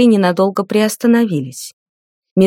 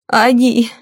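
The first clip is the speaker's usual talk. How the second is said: higher-pitched gasp of recognition, trailing off; gasping shock; 5 semitones higher than usual. A narrator's reading. Mother realises who the women were, higher-pitched shocked gasp. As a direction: let the word escape before a faint. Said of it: "ахнула лейда Фаиния и упала в обморок".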